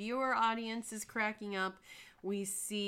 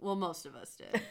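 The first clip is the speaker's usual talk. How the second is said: mock mumbling under the breath; 3 semitones lower than usual. Recapping a meeting, retelling a woman's aside mumbled under her breath. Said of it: "Pam kind of mumbles under her breath".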